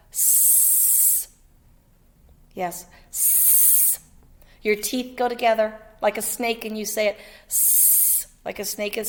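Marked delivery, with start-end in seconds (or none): 0.1-4.0 S as a long voiceless hiss; s sound. Shown as a demonstration. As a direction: hiss S like a snake. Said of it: "The S says".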